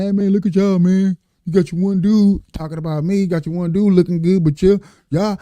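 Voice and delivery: lightly acted anger at the rival group; mock angry rant. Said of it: "and I'm getting mad".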